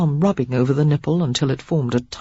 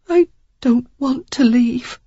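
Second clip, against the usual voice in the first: slow, breathy whisper, voice thick; woman whispering to the man that she won't leave; 8 semitones higher than usual. A narrator's reading. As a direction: whisper it, choked with feeling. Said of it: "she said thickly".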